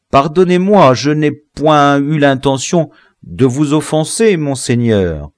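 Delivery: high, loud, anxious voice; flustered, deferential pleading; pleading apology. A narrator's reading. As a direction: beg the master's pardon urgently. Prisoner begs pardon of threatening general.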